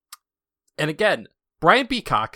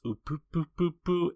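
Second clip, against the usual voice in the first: light mock childish giggle; a hint of a cheeky bear giggle; imitating Monokuma giggle; 6 semitones higher, faster than usual. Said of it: "the way she goes".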